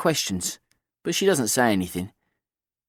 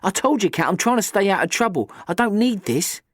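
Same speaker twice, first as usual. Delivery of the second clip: tight, jaw clenched, held in anger; through gritted teeth; 7 semitones higher than usual. A narrator's reading. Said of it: "I say through gritted teeth".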